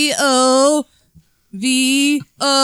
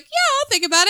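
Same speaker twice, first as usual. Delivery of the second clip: Midwestern polite brush-off; 10 semitones higher than usual. Retold or imitated. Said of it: "in Midwestern".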